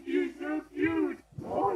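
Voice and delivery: excited dog-talk squeal. Real, not acted.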